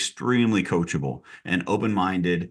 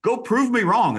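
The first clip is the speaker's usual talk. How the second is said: much higher, ringing challenge on "prove"; playful dare; 12 semitones higher than usual. Real, not acted. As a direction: toss the dare up high and bright. Coach daring agent, repeated dare.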